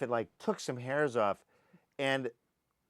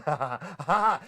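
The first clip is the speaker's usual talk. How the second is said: mock pained laughter; 5 dB louder than usual. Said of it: "I started going".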